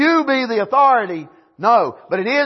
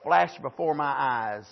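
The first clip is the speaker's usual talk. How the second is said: slow, drawn-out "My whole life"; quoting a phrase; 5 semitones lower, 5 dB quieter, slower than usual. Retold or imitated. Preacher quoting the saying to the church, slowly. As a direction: linger on the phrase. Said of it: "you hear that phrase".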